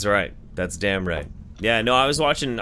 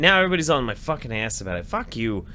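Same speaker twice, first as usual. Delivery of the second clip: comic outburst rising louder and higher; exasperated; 4 semitones higher, 4 dB louder than usual. Real, not acted. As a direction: swear back at the friends ganging up. Exasperated at being teased about accent.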